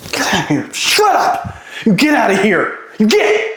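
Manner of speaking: angry shout. Acted. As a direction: drive them away angrily. Drummer shouts at drum kits.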